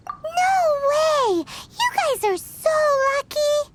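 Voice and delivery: high, bright envious cry of "no way"; excited outburst. Acted. Paimon envying the siblings' imaginary friend, excited outburst. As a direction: burst out, jealous and thrilled.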